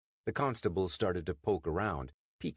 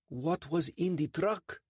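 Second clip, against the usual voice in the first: higher, quick defensive answer; nervous Sandeep; 11 semitones higher, slower than usual. Acted. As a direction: claim the truck a little too fast. Sandeep asks after police leave.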